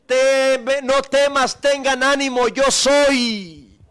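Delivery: lightly voiced Jesus, loud and firm. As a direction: proclaim it as Jesus's reassuring command. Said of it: "Esa voz que nos dice".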